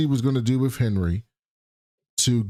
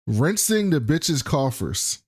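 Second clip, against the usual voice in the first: slow reread; slower than usual. Shown as a demonstration. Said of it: "Who says this?".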